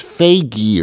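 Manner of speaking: "faggy" slowly as FAY-gee; tentative pronunciation. Shown as a demonstration. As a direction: sound out "faggy" with a long ay. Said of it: "I think it's".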